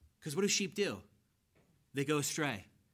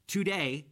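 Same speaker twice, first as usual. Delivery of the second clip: "today" said firmly and louder; emphatic TODAY; 5 dB louder than usual. Shown as a demonstration. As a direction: land hard on the word "today". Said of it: "and it's emphatic".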